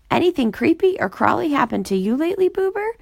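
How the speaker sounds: talking through a mouthful of cake; quick teasing through a bite; mouth full. A narrator's reading. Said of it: "she said through a mouthful of cake".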